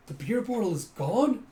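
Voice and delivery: loud, high disbelieving question; mock amazement, rising at the end; astonished onlooker. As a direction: gasp it out like a stunned spectator. Astonished onlookers of bottle trick.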